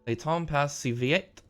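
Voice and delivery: "le temps passe si vite" read slowly in shaky French; bad French. Real, not acted. Reading French from the letter, admittedly bad French. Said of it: "sorry for my bad French".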